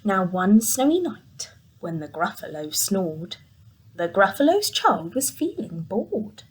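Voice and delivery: hushed, spooky read for little ones; storytelling narration. A narrator's reading. Narrator drawing the children into the dark wood, hushed. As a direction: read it like a bedtime tale.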